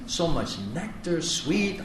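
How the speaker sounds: a hushed, baffled echo of the teacher; incredulous mockery. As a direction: mutter it as a disbelieving beginner. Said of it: "I was like".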